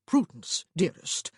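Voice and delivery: loud, anxious call of her name; anxious brother calling out. A narrator's reading. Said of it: "Augustine said anxiously".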